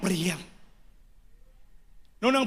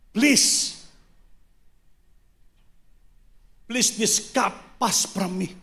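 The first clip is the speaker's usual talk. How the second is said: Jesus praying; 3 semitones higher, slower than usual. Retold or imitated. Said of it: "Anong prayer niya?".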